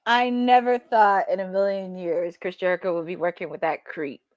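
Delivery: a shaky attempt at an Australian accent, dropping low at the end; amateur Australian accent, lightly done. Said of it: "I'm sorry if I didn't have the best Australian accent".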